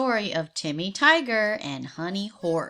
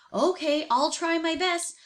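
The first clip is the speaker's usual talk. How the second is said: higher, willing pony voice; lightly voiced eager horse; Honey the horse; 6 semitones higher than usual. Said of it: "said Honey".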